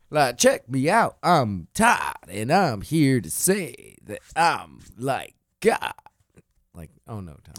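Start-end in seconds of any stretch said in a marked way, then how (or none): 0.4-5.9 bad rapper. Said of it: "Todd's a shitty rapper".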